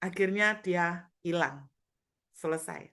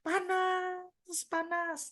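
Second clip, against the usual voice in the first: high, screaming woman crying out; retelling the woman next to her yelling it burns; 11 semitones higher, much slower than usual. Retold or imitated. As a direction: imitate her shrill cry of pain, high and strained. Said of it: "wanita di sebelah saya berteriak".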